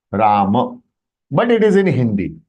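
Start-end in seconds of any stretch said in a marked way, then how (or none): 0.1-0.8 "Ram" as long "Raa", short "muh"; short final vowel. Shown as a demonstration. Teacher repeating the correction, "Ram" as "Raa-muh". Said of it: "It is Ram".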